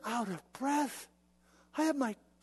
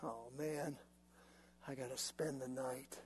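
deflated; 8 semitones lower, 17 dB quieter than usual. Acted. Resigned after missing.

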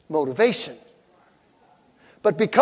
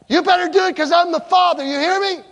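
higher, louder mock yell of a strict father; stern father yelling; 10 semitones higher, 4 dB louder than usual. Pastor mimicking his younger self yelling at the kids. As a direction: bark the order like a dad demanding obedience. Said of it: "I'm gonna raise my voice and I'm gonna yell at them".

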